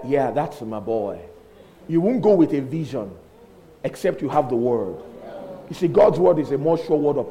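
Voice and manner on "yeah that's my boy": low, softly approving; sweet fondness. Retold or imitated. Jesus looking sweetly at his boy, fond approval. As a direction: say it with a soft smile. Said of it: "looked at him so sweetly and smiled".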